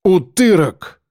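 cursing under mild anger. A narrator's reading. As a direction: spit out an insult at him. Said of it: "ругался он".

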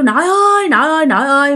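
high retold call to grandma. Grandson calling grandma to stop, high retold call. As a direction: call her name, high and pleading. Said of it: "con kêu".

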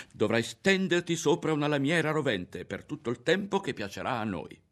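put-on boy threatening the girl during the attack; shouting through teeth. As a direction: spit the threat at her. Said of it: "e tra i denti gridava".

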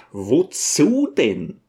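slow, mildly astonished question. Acted. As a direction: ask with drawn-out puzzlement. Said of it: "fragte der Lehrer erstaunt". (leicht erstaunt, gedehnt)

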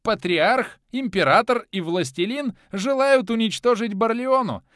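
high, loud gleeful madman; mad god. A narrator's reading. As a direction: gloat over the coming slaughter. Mad god explains the battle.

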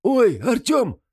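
high, loud startled shriek; frightened cry. Acted. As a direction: yelp in sudden fright. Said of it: "вскрикнул сильно перепуганный Гремлун".

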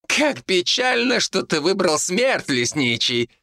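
monk shouting a parting taunt; shouted. A narrator's reading. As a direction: wail it in false pity. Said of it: "прокричал Тасник".

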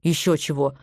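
low, soft grumble; grumbling. A narrator's reading. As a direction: grumble it under the breath. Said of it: "буркнул Виктор Иванович".

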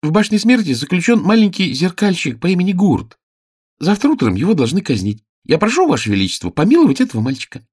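put-on high, earnest boy's voice; young page. Page begging the king for mercy, high earnest voice.

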